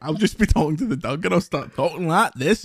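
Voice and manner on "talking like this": brief imitation of a friend's accent; lightly put-on accent of a co-host; Danny's accent. Shown as a demonstration. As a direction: slip playfully into a co-host's accent. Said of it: "I do Danny's accent".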